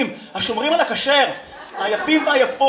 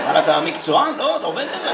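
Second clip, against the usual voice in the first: lightly voiced let-down dad, starting low; doubtful dad's questions, lifting at the end; disappointed father; 3 semitones lower than usual. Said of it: "אבא שלי עם פרצוף מאוכזב". (חיקוי קל של אבא מאוכזב)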